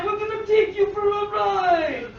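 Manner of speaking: mock mafia threat; mobster tiger. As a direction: play a comic gangster don making a threat. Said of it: "says to me".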